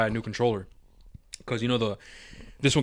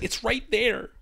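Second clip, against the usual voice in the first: mock sister; 9 semitones higher, slower than usual. Mimicking sister pointing it out.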